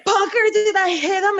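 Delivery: high, loud, crying panic; panicked cry. Retold or imitated. To CM Punk after hitting Steamboat with the door, panicked high cry. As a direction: wail his name in horror as if near tears. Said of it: "And I'm like".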